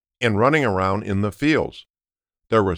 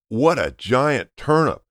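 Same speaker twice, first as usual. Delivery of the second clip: a slow, lightly raised exclamation; mild mock shout; 3 semitones higher than usual. Grandpa amazed at the huge turnip, mild mock shout. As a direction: grandpa marvels aloud, half-hearted shout. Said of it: "Sophia's grandpa shouted".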